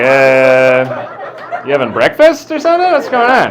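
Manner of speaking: high, loud squeaky disbelief; mock incredulous voice. Comic asking a friend about breakfast, mock high squeak. Mocking someone's surprised reaction.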